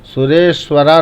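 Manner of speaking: सुरेश्वरा with a long आ added after र; wrong long ending. Shown as a demonstration. Teacher shows what not to say, final vowel lengthened. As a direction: end सुरेश्वरा on an open raa. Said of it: "नहीं बोलेंगे".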